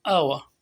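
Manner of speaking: आवा said low and held; example word demo. Shown as a demonstration. Teacher giving the example word, careful. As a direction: model आवा clearly. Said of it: "सबसे पहले example".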